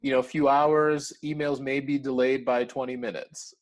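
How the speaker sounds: hammed-up American worker saying sorry; apologetic American out-of-office reply. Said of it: "American response was like".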